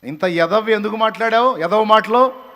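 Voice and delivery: loud, angry scolding question; preaching at full force. Acted. Preacher berating a listener for empty boasts, loud scolding. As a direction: bark the rebuke at them.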